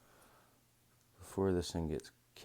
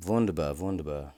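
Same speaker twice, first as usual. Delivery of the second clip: playful cheer; 9 dB louder than usual. Real, not acted. Playful celebration in German.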